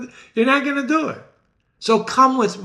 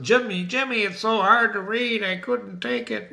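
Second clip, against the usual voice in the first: mock complaint; 4 semitones higher than usual. Voices readers complaining to him.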